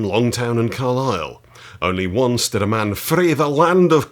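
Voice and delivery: hammed-up Scottish accent. Reading an old wrestling book to viewers in a lightly hammed Scottish accent. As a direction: read the old book in a playful Scottish lilt. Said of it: "I did ham it up a little".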